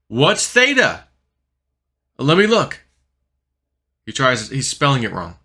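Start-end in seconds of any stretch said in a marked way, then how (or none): 0.1-2.8 high, loud hurried back and forth; urgent exchange. Retold or imitated. Dreamer and friend checking theta's price, high loud hurry. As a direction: rush the question and answer.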